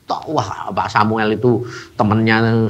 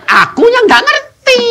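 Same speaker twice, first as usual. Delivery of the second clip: self-mocking admission; 6 dB louder than usual. Real, not acted. Admits own mistake.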